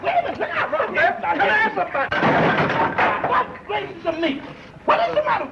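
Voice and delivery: very high, laughing in terror; panicked squeal. Acted. Begging the razor-wielding sleeper to stop, squealing high. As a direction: squeal it out, half laughing, half scared stiff.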